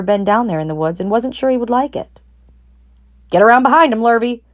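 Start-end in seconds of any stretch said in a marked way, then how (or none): 3.3-4.4 calling out. A narrator's reading. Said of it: "said Mister Zuckerman".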